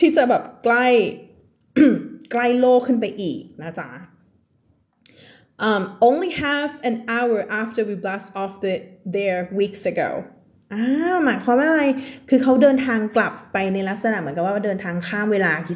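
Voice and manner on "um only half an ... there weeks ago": very slow, careful reading of the text; slow reading aloud. Acted. Teacher reads the story text slowly to her class. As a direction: read the passage word by word for learners.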